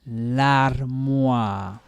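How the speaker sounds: "L'armoire" with OI drawn out as a long "wah"; oua for OI. Shown as a demonstration. Teacher reminds learners O I is oua, drawn-out vowel. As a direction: say "L'armoire" stretching the final "oua" sound. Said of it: "I told you about oua".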